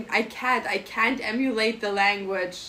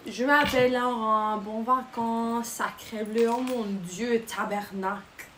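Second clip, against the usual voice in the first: French phrases. Shown as a demonstration. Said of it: "I know".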